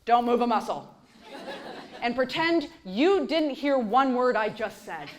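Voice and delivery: slow, hushed, conspiratorial tease; mock hushed advice. Mom to kids at bedtime, hushed mock advice. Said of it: "what they must hear".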